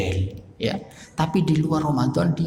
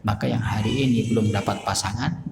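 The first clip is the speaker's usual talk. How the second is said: ordinary delivery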